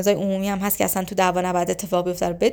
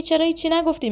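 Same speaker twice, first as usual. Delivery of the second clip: higher-pitched mock demand; acted questioning; 7 semitones higher than usual. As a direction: imitate a partner pressing for an answer, pitched high. Acts partner questioning silent spouse. (با صدای زیر، نقش همسرِ پرسشگر)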